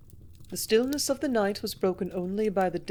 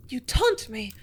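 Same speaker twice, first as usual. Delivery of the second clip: higher and louder, stung into anger; angry cry; 5 semitones higher, 4 dB louder than usual. A narrator's reading. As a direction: hurl it at him in rage. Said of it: "she cried in anger".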